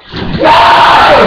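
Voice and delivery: high shouted no; raging gamer. Real, not acted. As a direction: yell it at the screen. Shouting at the game.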